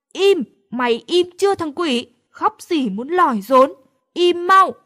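put-on frazzled friend yelling at a wailing baby. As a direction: snap at the crying baby, building to a shout on the last words. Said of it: "Chan Chan vò đầu la lên".

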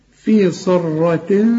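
في صرة very slow with thick sad and ra; heavy sad and ra. Shown as a demonstration. Teacher to student: very slow, heavy صرة. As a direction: stretch في صرة, full and heavy. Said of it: "الصاد والراء مفخمين".

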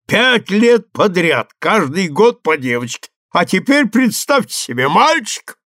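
high, loud proud exclamation; proud father exclaiming; excited. A narrator's reading. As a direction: boast about the baby boy. German boasting of son.

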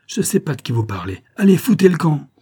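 put-on an old woman's fury, rising to a loud shout; angry old woman. Old woman throwing the police out, angry loud shout. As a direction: drive the cops out of her farm, yelling.

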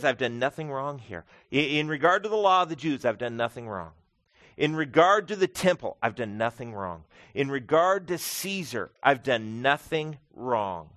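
rhythmic refrain, rising on the area and falling on the denial; repetitive emphatic declaration. Acted. Paul listing each charge and denying it, rhythmic emphatic refrain. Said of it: "it's a very repetitive phrase".

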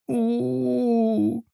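soft high whimpering wail; quiet mournful howl. A narrator's reading. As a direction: android girl howling in grief, soft and high. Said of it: "тихое подвывание".

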